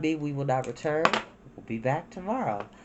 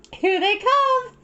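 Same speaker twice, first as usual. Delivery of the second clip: high, louder, slowed joyful cry; thrilled girl's shout; Satsuki shouting; 7 dB louder, slower than usual. Acted. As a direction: call out the arrival in delight. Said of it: "Satsuki shouted".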